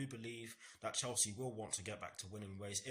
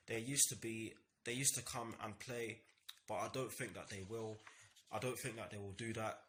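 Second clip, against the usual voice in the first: stumbling over words, restarting phrases; stammering. Real, not acted. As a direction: stammer and restart mid-sentence. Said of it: "Sorry for stammering my words there".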